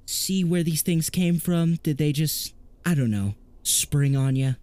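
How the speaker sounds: anxious, fast-talking specialist; nervous guy voice. Acted. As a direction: fret about the trouble. In character.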